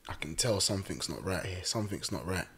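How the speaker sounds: low, hushed pastor imitation; retold pastor, low and soft; quiet foreboding. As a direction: softly intone the suspicion. Pastor sensing trouble, retold.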